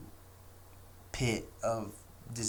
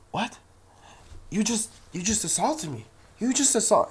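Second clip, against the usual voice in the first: high, louder mock outrage; Karen acting outraged; 11 semitones higher, 6 dB louder than usual. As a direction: overplay a shocked accusing Karen. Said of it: "she's like".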